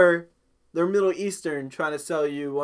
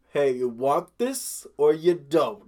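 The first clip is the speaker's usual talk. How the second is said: mock salesman; slower than usual. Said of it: "what is your sales pitch".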